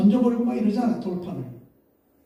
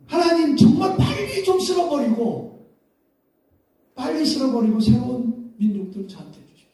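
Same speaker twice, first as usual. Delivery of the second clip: eager plea; 5 semitones higher than usual. Retold or imitated. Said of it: "그럴 것 같아요".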